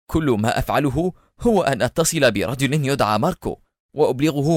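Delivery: mildly alarmed pleading; understated frightened confession; panicked cry. Acted. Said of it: "وهو يهتف في ارتياع".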